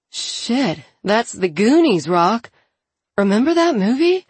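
excited recognition. A narrator's reading. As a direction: blurt it out, thrilled to remember. Excited character recalls a film.

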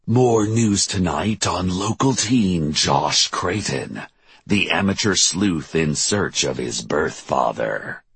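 measured, emphatic anchor delivery; news anchor read. A narrator's reading. Tim reporting on the missing teen, anchor voice.

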